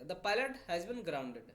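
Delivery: slow and deliberate; slow dictation read. Shown as a demonstration. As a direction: read it out slowly for the class. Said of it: "जो pilot है उन्हें उड़ने से रोक दिया गया".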